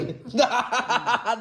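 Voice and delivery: long, rolling teasing laugh; drawn-out cackling laugh. Real, not acted. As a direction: laugh mischievously at her. Teasing grandma about pestering her.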